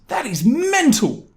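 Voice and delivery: high, slow, stunned disbelief; incredulous. Real, not acted. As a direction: stretch it out, totally floored. Outraged verdict on the thief.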